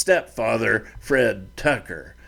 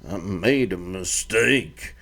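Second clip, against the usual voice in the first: a hint of a contrite son; sheepish apology; 4 semitones lower, slower than usual. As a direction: hang your head and mumble sorry. Son admits fault.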